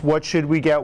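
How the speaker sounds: ordinary talk, nothing marked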